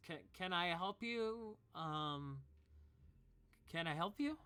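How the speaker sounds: a touch of nervous height; startled barmaid. Acted. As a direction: barmaid startled by the stranger, mild nervous lift. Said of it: "she says".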